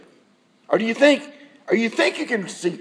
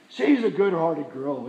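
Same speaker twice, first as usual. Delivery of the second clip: patronizing; 4 semitones lower, 4 dB quieter than usual. Shown as a demonstration. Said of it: "he said in a patronizing voice".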